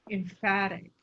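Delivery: "emphatic" set off by a long pause, FAT stressed; slowed, emphatic delivery of "emphatic"; pause before emphatic. Shown as a demonstration. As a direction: hold back, then stress "emphatic" on FAT. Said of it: "using a pause before those".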